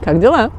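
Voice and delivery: Как дела? with the Russian ла stressed and a light rise; correct Russian. Shown as a demonstration. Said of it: "Now you gotta say it correctly".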